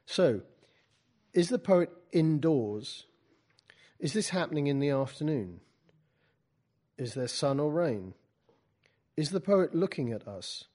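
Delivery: measured storytelling with separated questions; literary reading. Acted. Poet reads from the book to a class, literary reading. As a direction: read your own prose to an audience.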